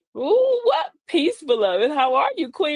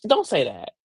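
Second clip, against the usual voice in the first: self-warning. Acted. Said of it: "I say it to myself".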